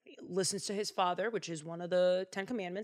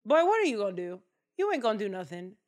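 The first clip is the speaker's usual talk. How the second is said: scoffing brothers; 4 dB louder, faster than usual. Acted. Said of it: "looking at this pipsqueak like".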